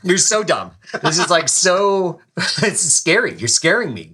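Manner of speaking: high, loud, drawn-out mock horror; dead-serious alarm. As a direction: imitate someone appalled by incompetence. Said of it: "He was dead serious".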